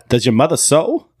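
lightly voiced movie tough talk; Christopher Walken impression. Podcaster quoting a film taunt, Walken impression. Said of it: "Christopher Walken and Joe Dirt when he's trash talking".

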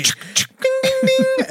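very high, ringing ding like a bell; boxing bell. Acted. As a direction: imitate a fight bell.

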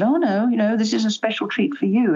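lifted pitch, as if soothing a grandchild; retold reassurance. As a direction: gently talk a worried child round, retelling it. Retelling how she reassured her worried grandson.

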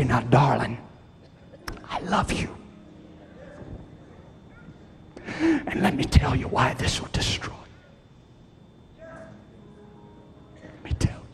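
soft, hushed loving warning; like a parent quietly warning a child; tender parent-to-teenager talk. Pretend. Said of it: "Walk in your teenager's bedroom and say".

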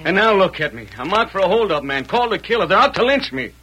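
building anger at his fate; bitter outburst. Acted.

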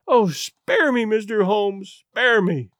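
pleading. Acted. Lady Hilda on her knees begging Holmes, pleading. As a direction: beg him as if on your knees. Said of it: "she pleaded".

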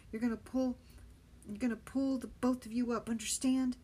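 loud urgent orders; urgent command. Acted. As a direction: bark out instructions from above. Benny urgently instructs dangling boy.

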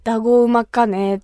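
casual Kumamoto dialect demo; lightly voiced Kumamoto local. Shown as a demonstration. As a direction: say it in homely Kumamoto-ben. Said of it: "熊本弁で言うと".

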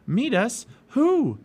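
high, loud, puzzled question; puzzled exclamation. A narrator's reading. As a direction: demand to know, pitched right up. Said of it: "said Jack".

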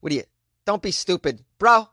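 lightly put-on Boston accent with a mild mock yell; a hint of a Boston accent. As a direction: play a mouthy Boston guy ribbing his buddy. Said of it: "I'm like".

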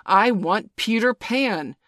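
loud and slow, demanding; petulant demand. A narrator's reading. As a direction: insist on it loudly. Hook continuing his outburst.

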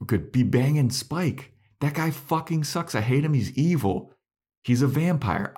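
hammed-up anger at Buffy over Spike; imitating angry Xander. Host retelling Xander scolding Buffy, mock angry rant. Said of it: "Xander's getting kind of more aggressive with his anger and his tone".

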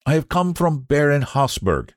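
put-on polite Frenchman with a trace of French accent; an old messenger with a slight French accent. A narrator's reading. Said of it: "in a slight French accent".

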